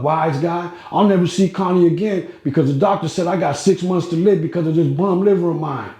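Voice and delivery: lightly voiced old Italian, grumbling about his money; Mister Niccolo voice. Retelling Niccolo's bitter speech.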